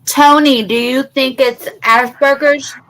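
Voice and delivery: talking with a mint in mouth; mouth full. Real, not acted. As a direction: mouth full, candy on tongue. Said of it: "cinnamon disc in my mouth".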